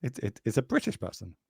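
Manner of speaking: half-hearted imitation of an American; mock American accent. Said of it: "American accent for anybody listening".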